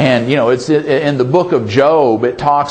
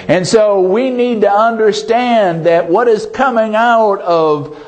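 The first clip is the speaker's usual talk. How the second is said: slow, raised-pitch sermon delivery with drawn-out key words; emphatic preaching; 4 semitones higher, slower than usual. Real, not acted. Preacher assuring the congregation their prayers live on, slow and emphatic. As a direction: drive the promise home to the congregation.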